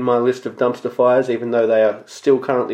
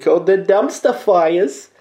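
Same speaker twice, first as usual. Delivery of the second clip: slow, higher, hammed-up Brooklyn Jewish drawl on Dumpster Fires; mock Brooklyn Jewish announcer voice; Jewish Brooklyn accent; 6 semitones higher, slower than usual. Podcast host introducing his new segment in a hammed-up Brooklyn Jewish accent. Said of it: "I used the Jewish Brooklyn accent there".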